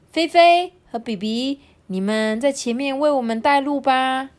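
slightly high teacher voice giving a task; teacher calling pupils. Acted. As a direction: call on them lightly as their teacher. (老师点名交代的语气)

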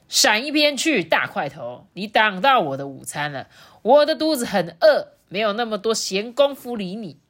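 bullying shout, mildly done; rude yelling. Acted. Lulu orders Rourou aside from his lunch, shouting rudely. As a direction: bark it at someone in your way. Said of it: "对柔柔大喊说".

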